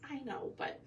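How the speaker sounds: high-pitched, softened mock pleading; retold exasperated plea. Homeowner answering the pest control guy about roaches, mock pleading.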